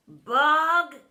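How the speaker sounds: loud barked name. A narrator's reading. Doctor Dredd calling Bog, loud bark. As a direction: snap his name. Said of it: "Dredd barked".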